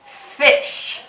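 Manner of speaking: fish ending in a long hushed sh; showing the sh in fish. Shown as a demonstration. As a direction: stretch the sh at the end of fish. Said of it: "Do you hear that S H sound".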